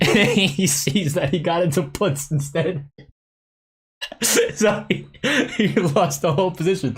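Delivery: high voice broken by giggles; real laughing. Real, not acted. Streamer revealing the friend got into puts instead, laughing. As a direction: laugh your way through the punchline.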